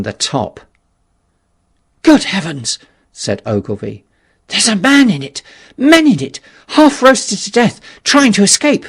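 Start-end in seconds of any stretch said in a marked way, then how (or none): 2.0-2.8 a sudden, higher gasp of shock; shocked cry of discovery; startled exclamation. Acted. Ogilvy exclaims at the cylinder. 4.5-8.9 high, loud, panicky voice; frantic alarm rising in pitch; horrified cry. Acted. Ogilvy horrified at men inside.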